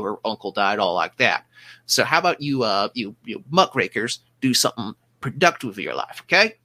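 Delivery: bossy small-time officer blustering; gruff portly man. Acted. GM voices portly ship officer.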